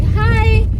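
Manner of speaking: bright high little hi, imitated; high greeting. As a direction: squeak a shy hello. Stranger greets her at party.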